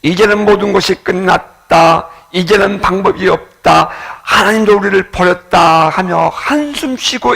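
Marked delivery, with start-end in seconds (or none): 0.0-5.9 anxious despair. Retold or imitated. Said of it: "불안해하며".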